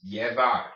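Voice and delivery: Llevar as one smooth word, Y at the start; put all together. Shown as a demonstration. Teacher puts the syllables together, whole-word Llevar. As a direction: join up Llevar, double L as Y. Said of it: "Just put it all together".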